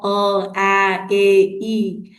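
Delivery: short "अ", "ए", "ई" sounded clipped and apart; teacher demonstrating short vowels "अ, ए, ई"; short vowel sounds. Shown as a demonstration. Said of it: "उसमें एक short vowel है".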